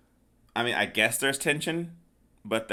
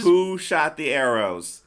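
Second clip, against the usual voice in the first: loud, slow, raised question; exasperated demand; 5 semitones higher, 6 dB louder, slower than usual. Acted. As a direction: demand an answer in comic outrage. Mock outrage at the film's mystery.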